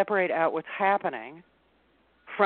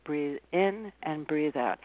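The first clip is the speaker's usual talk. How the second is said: slow calm breathing cue; 4 semitones lower, 3 dB quieter, slower than usual. Shown as a demonstration. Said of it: "That is the first step".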